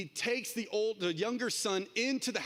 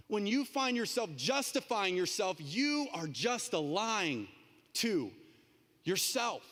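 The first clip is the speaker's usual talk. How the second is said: slower, drawn-out repeat of the point; emphatic repeat; 3 semitones higher, slower than usual. Acted. Preacher repeating for the congregation, slow and weighty. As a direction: land each word slowly.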